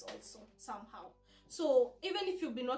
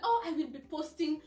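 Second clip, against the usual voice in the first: mock giddy chatter, louder; overhyped new mom; 3 semitones higher, 6 dB louder than usual. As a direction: gush about selfies and park trips. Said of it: "Don't be like".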